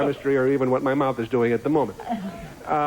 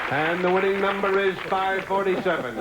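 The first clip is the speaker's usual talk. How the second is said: raffle caller; 5 semitones higher than usual. Acted. Announcing the winning number.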